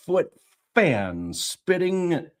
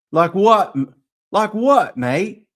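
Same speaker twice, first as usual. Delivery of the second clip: put-on Cockney accent; 2 semitones higher, 5 dB louder than usual. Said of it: "Let's do Cockney".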